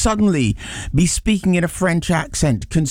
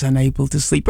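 normal talking voice

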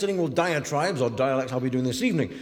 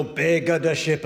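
mock Italian accent. Shown as a demonstration. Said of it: "a bit more Italian for you".

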